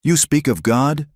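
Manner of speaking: a high, rising shout of disbelief; a woman shouting at the man who burned her home. Acted. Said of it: "Neha shouted".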